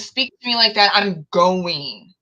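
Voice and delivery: firm loud exit. Retold or imitated. Walking out on a rude coworker, loud and firm. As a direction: announce you are leaving, firmly. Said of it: "I've walked out before".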